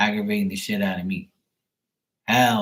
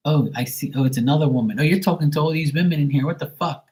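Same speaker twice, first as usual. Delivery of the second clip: put-on higher, nosy girlfriend voice reading his chat; mock suspicious girlfriend; 3 semitones higher than usual. Girlfriend snooping on his livestream chat, mock suspicious higher voice. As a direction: play the jealous girlfriend spotting other women.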